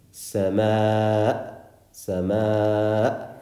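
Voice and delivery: "sama" stopped dead in the throat; hamza cut-off. Shown as a demonstration. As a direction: end "sama" by cutting the sound off sharply. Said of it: "just cutting off the sound like that".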